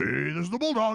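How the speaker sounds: high-pitched cartoon bulldog character voice. The speaker voices one of two dog characters: bulldog voice. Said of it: "my two dog voices".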